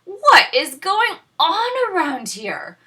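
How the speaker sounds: put-on high, loud exasperated girl; exhausted girl groan. A narrator's reading. Tired Goldilocks complains to herself, high exasperated groan. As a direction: groan it out, fed up. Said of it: "groaned the exhausted girl".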